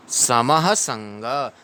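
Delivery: समः with a quick ha; sama-ha, the ha fast, then संग; quick visarga. Shown as a demonstration. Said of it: "विसर्ग को ह पढ़ेंगे तो थोड़ा फास्ट पढ़ेंगे".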